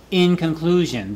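"in" stressed, "conclusion" falling away. Shown as a demonstration. Teacher models how to open a conclusion, stressing "in". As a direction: lean on "in" as the phrase opens. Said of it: "you emphasize the in".

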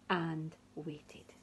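soft whispered suspense; whispering. A narrator's reading. Story suspense.

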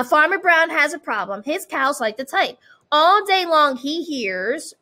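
put-on bright read-aloud for kids; storytime reading. A narrator's reading. Reads picture book aloud.

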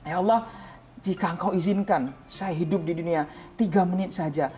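urgent plea that climbs in pitch; imploring, piling wish upon wish; pleading prayer. Retold or imitated. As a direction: beg God, rising to a high cry. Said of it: "saya mintanya sama Allah beda".

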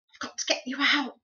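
put-on urgent young boy.

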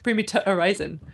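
"to" reduced northern-style in "Primi to horizon"; halting amateur go at northern "to" in "Primi to horizon"; northern pronunciation. Shown as a demonstration. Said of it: "people up north say".

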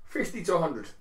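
yawning through the words. Real, not acted. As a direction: say it mid-yawn. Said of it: "I was yawning as I said that".

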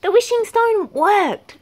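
high, slow, thrilled squeal; excited squeak. A narrator's reading. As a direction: squeal it in delight. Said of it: "squeaked Flamingo".

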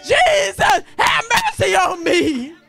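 voicing the blind beggar, high and pleading, crying out to Jesus; blind man crying out. Blind beggar calls to passing Jesus, pleading cry. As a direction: beg loudly for mercy as the blind man. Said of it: "He cried out louder".

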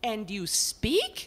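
slow, astonished question. Acted. Portrait asks the house, astonished it can talk. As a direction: ask it in wonder. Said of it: "She asked in an astonished tone".

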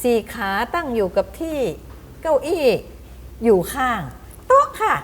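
playful riddle, clue by clue with pauses; teacher posing riddle. Acted. Teacher giving children clues to guess a word, riddling tone. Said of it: "ครูก็บอกว่า".

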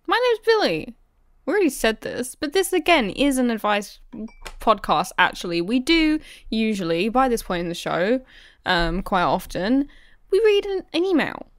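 a lightly silly radio voice; funny voice. Acted. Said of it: "you're talking funny".

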